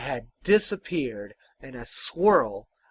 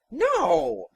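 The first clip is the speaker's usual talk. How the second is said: tag; 9 semitones higher, 5 dB louder than usual. Acted. Offended tinker denies it.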